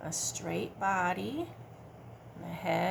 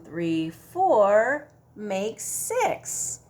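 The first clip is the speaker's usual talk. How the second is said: slow counting; 5 dB louder, much slower than usual. Shown as a demonstration. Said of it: "math demo".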